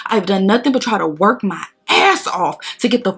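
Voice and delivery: heated, insistent telling-off; retold cussing out. Cussing out the daycare assistance lady, indignant. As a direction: re-enact giving someone an earful, rising in pitch in places. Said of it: "I remember cussing that lady out".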